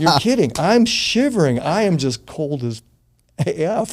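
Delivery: high, loud disbelief; mock astonished protest; incredulous. Retold disbelieving reply.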